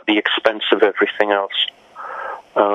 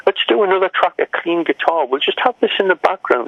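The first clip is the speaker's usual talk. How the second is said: raised, higher voice for the producer; lightly voiced producer, pitched up; mock producer voice; 9 semitones higher than usual. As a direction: lift the pitch to mimic him. Retold producer suggestion.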